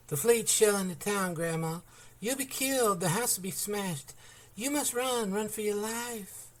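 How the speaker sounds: high, urgent, pleading cry; screamed warning. A narrator's reading. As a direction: scream it into her ear. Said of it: "Jenny screamed her warning".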